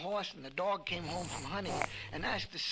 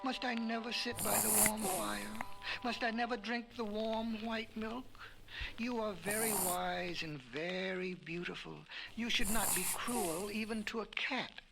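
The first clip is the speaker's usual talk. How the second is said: higher, pleading, sorry-for-himself cat; mock sorry cat; 5 semitones higher than usual. Cat begs the woman to be let into the cave, higher mock-sorry plea. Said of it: "Then Cat pretended to be sorry".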